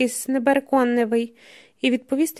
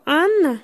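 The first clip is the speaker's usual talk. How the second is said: "Анна" higher, as a distinct question; clear questioning repeat; 4 semitones higher, 3 dB louder than usual. A narrator's reading. Pasha repeats the daughter's name to the man, clear and questioning. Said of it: "повторює Паша чітко".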